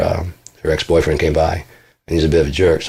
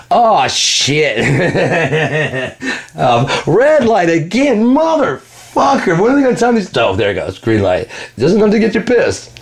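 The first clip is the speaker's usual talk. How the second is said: high, slow, drawn-out frustrated whine; high frantic victim voice; 10 semitones higher, slower than usual. Retold or imitated. Mocking the victim cursing red lights in a high slow whine. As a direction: play the cursed man stuck at red lights.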